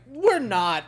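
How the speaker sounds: gloomy inner thought. Retold or imitated. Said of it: "that, like".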